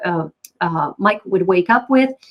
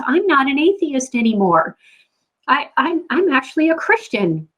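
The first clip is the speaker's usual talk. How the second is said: higher, joyful "I'm" leading the line; elated declaration; 5 semitones higher than usual. Retold or imitated. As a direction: announce it with bright joy.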